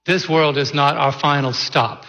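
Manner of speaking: prayer. Acted. Pastor praying before the sermon, reverent and unhurried. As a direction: pray over the congregation, unhurried.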